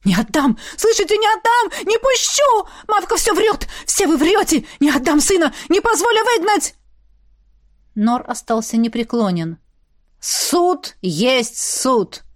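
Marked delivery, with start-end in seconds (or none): 0.1-6.8 mother shielding her son, frantic and shrill; desperate screaming. Acted. 10.2-12.2 very slow, unbending; firm verdict. Acted. Elder stays firm.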